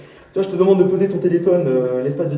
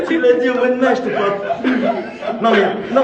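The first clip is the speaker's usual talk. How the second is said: laughing disbelief; 5 semitones higher, 4 dB louder than usual. Real, not acted. Incredulous, laughing.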